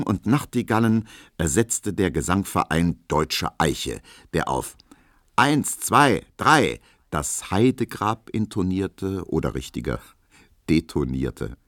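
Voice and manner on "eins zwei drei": counted out loud and higher, like a choir leader; loud mock count-in. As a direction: call the count for the singers.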